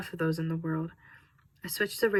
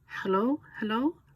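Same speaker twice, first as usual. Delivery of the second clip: frantic call; 4 semitones higher than usual. A narrator's reading. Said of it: "a frantic voice calling out".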